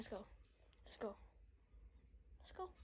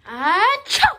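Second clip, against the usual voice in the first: fake sneeze; 2 semitones higher, 13 dB louder than usual. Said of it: "it's fake".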